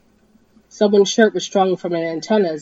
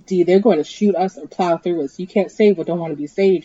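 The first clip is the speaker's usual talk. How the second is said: growled; 4 dB louder than usual. Acted. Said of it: "he growled".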